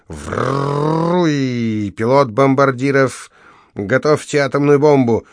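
mother playing bomber commander; mock pilot order. A narrator's reading. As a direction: bark orders into a toy radio. Mother commands nuclear strike.

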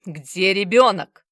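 loud, slow growled demand. Acted. Bazarov leaning in on the manager, loud slow growl. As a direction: growl it right in his face. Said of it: "рыкнул так".

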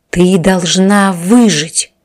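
slow, firm and pressing; insistent. A narrator's reading. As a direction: say it slowly with weight. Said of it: "с нажимом произнёс отец".

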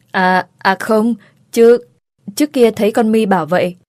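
stumble, then hurry out a cover-up; stammering. Acted. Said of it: "Gì mà lắp bắp vậy má". (lắp bắp chống chế)

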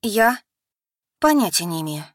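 в смятении; distraught. Acted. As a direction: torn between sister and man. Alisa torn between them.

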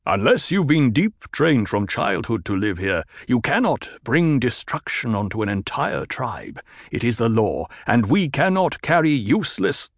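a lightly voiced stern desert chieftain; firm tribal leader laying down the law; Stilgar. Leader explains the tribe's rule to a woman, stern.

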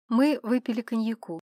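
plain reading voice

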